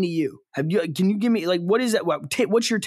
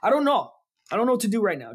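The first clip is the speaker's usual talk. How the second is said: flustered disbelief; 5 semitones higher, faster than usual. Real, not acted. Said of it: "I'm still processing".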